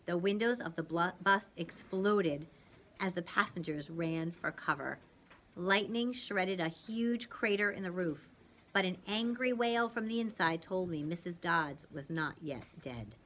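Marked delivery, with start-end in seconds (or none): none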